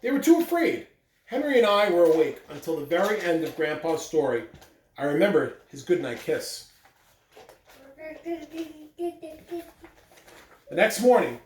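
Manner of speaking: reading a picture book aloud to the class; even, steady storybook reading voice; story narration. Acted. Teacher reading the story to her students, storytelling voice.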